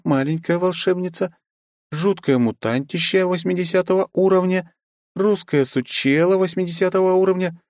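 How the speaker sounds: put-on high, chattering bubbly young woman; high lively girlish chatter. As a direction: rattle it off excited and girlish. Kristina voiced throughout.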